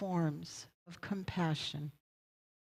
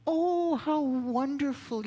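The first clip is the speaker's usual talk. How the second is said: higher, louder gush of delight; delighted old man; 8 semitones higher, 5 dB louder than usual. Retold or imitated. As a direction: beam at him: how wonderful. Elderly man delights in the answer.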